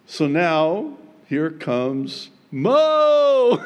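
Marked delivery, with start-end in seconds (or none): 2.5-3.6 high, loud, stretched "Mo"; playful drawn-out call; comic announcement. Acted. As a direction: herald his arrival with a laugh behind it. Comic announcing of Moses' arrival.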